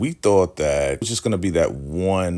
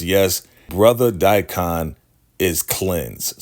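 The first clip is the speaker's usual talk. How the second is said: slow, louder leader's declaration; grand pronouncement; 4 dB louder, slower than usual. Retold or imitated. Leader pulling River off and declaring him cleansed, grand. Cult leader stops the beating.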